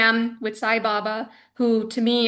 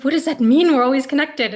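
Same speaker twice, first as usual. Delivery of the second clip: puzzled; 2 semitones higher, 6 dB louder than usual. Retold or imitated. Devotee questioning her guru's parting words, puzzled. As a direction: throw his words back in confusion.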